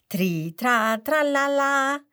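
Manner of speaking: lauter, hoher Kasperruf, singend gedehnt; trällernd und laut auftreten; fröhlicher Ruf. A narrator's reading. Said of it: "ruft der Kasper". (Kasper ruft seine Begrüßung ins Publikum)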